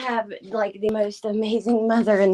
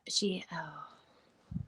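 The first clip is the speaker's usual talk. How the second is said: voice breaking off; 4 semitones lower, 12 dB quieter than usual. Real, not acted. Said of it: "I don't wanna cry anymore".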